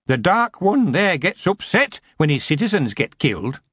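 cheeky goblin. A narrator's reading. Goblin prisoner cheeking the queen, cocky goblin voice. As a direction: grin while you talk back.

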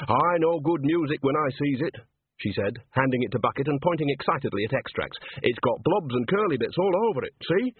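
eager character voice, lifted in pitch; lightly voiced Nanny. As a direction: show off a find, mildly excited. Nanny excitedly shows music to Bucket.

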